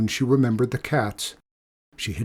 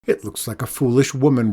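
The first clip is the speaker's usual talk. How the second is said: rude; 4 dB louder than usual. Acted. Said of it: "replied the man rudely".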